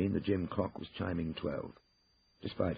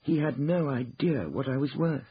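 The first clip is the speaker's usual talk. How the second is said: higher, louder, emphatic insistence; very firm; 9 semitones higher, 5 dB louder than usual. Acted. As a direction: state it firmly to shut down the question. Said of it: "said Ruth even more firmly".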